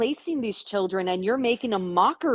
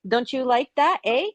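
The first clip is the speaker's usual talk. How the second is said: mock Canadian eh; 4 semitones higher than usual. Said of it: "she'd be like".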